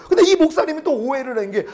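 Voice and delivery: ordinary delivery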